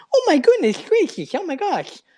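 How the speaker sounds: very high voice, lisping out the side of the mouth. Showing how his character sounds: Randy voice with lisp, side of mouth. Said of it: "He talks from the side of his mouth".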